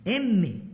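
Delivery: "M" hummed with the lips pressed firmly closed; well-shaped M. Shown as a demonstration. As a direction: press the lips together for a full "M". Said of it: "la gente dice M y no es M, es M". ("M" con los labios bien cerrados y marcados)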